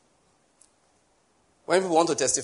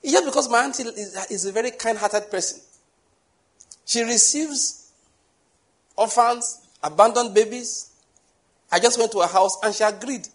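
mock boastful testifier; 6 semitones higher than usual.

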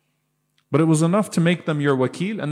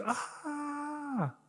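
imitated child scream; 14 dB quieter than usual. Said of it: "child screams and goes".

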